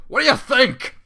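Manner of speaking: menacing villain. Acted. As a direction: gloat it right back at her. Villain answers Fluttershy menacingly.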